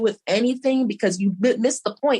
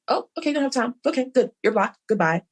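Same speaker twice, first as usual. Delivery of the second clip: sarcastic farewell; 2 semitones higher than usual. Retold or imitated. Blocking a rude acquaintance, sarcastic cheery goodbye. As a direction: wave them off with fake sweetness.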